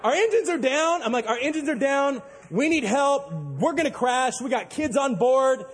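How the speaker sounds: high, urgent retold plea, slowing at the end; panicked radio plea. Stranded captain pleads with the marina over radio, panicky. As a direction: beg for rescue, rattled. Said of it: "I was panicking".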